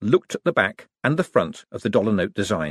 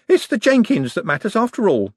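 artist's voice; 13 semitones higher, 4 dB louder than usual. Acted.

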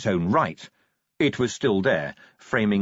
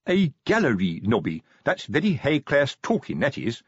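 pompous sergeant voice; 3 semitones higher than usual. Acted. Colon voiced in read story.

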